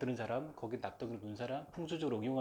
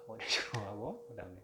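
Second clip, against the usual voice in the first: usual speaking voice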